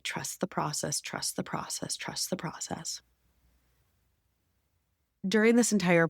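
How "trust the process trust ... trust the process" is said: soft inner mantra sinking into a whisper; calming herself with a mantra, fading to a whisper. Retold or imitated. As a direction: repeat it, softer each time, until it is only breath. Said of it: "I kept listening to my mind that, like".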